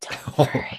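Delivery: very quiet, hushed whisper. Whispering to a startled character to calm her: whispering. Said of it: "I'm gonna whisper".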